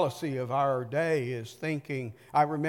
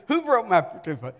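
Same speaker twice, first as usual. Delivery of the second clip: retold yell; 3 semitones higher, 5 dB louder than usual. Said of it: "He came out and said".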